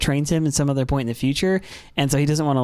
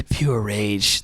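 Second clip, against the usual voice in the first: slow dramatic intoning; 4 semitones lower, much slower than usual. Acted. Echoing dramatically.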